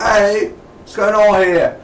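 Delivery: lightly mock the startled man; British guy. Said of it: "British guy there".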